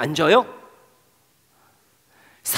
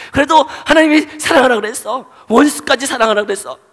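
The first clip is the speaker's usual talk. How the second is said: inner voice; 6 semitones higher, 4 dB louder than usual. Acted. Inner voice of conscience pleading.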